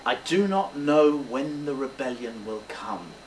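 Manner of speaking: measured, understated confession; changed, sincere tone. Shown as a demonstration. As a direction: share it honestly with your listeners. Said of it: "Here we need a change of tone".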